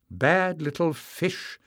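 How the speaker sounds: high, mock-stern telling-off; scolding. A narrator's reading. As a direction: scold the children, half-fierce. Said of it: "scolded Tyrrell".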